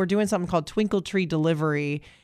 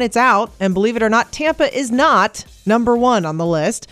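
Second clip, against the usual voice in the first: louder, punchy morning news headlines; energetic radio newsreader; radio news read; 5 dB louder than usual. Acted. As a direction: read a brisk upbeat local news update. Reads the news update.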